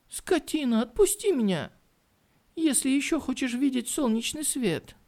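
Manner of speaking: high furious threat; angry threat. Acted. Captured woman threatens him.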